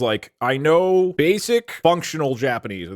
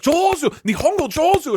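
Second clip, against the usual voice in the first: mock praise; 12 semitones higher than usual. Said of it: "they would be like".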